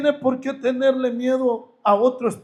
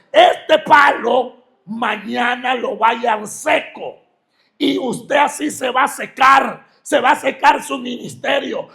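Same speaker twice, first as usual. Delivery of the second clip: retold curse; 3 semitones higher, 6 dB louder than usual.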